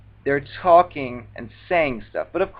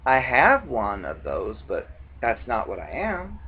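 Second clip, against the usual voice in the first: calm deadpan reply; 3 semitones lower, 5 dB quieter than usual. Retold or imitated. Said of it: "I'd say".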